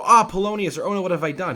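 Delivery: high, loud hammed-up lament; mock sorrow. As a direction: wail in pretend remorse. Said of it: "feels no sorrow. He does not go".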